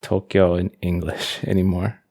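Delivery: normal talking voice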